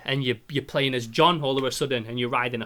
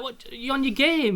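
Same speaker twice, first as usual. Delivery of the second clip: higher, slower unimpressed voice; imitating girlfriend; 11 semitones higher, slower than usual. Girlfriend realising it's only a game, higher voice. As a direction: play her deflating him. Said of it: "she's like".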